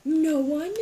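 calling out loud, surprised; calling out to see who's there; loud mock call. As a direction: shout into the empty room. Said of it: "and I was like".

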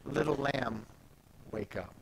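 put-on soft, gentle call to a child; hushed tender waking call. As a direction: coax her awake softly. Jesus waking the girl.

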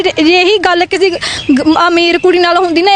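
slow, tearful words on the edge of crying; voice breaking. Real, not acted. Victim telling officials about unfair treatment, close to tears. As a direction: let the voice crack as the tears come. Woman pleading for justice, breaking down.

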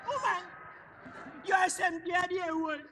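shouting at his wife; exasperated shout. Acted. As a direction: throw it at her, fed up. Husband scolding old wife.

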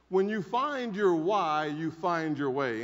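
"When you find your why, you find your way" said slowly, every word weighted; slow emphatic repeat. Shown as a demonstration. Speaker repeating Maxwell's line to the audience, slow and deliberate. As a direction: let the quote sink in slowly. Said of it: "John Maxwell said it very well".

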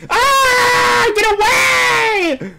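high, loud drawn-out yell; panicked scream. Real, not acted. Player screaming at an opponent to get away, panicked scream. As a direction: scream it, stretching the words out long.

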